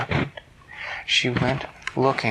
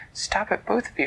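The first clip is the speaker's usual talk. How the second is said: put-on higher urgent girl's voice; Elise calling out; 9 semitones higher than usual. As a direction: break up the fight as Elise. Elise intervenes in story.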